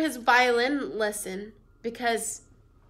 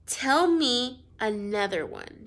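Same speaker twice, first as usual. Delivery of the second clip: dismissive grandma; slower than usual. Acted. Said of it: "she said".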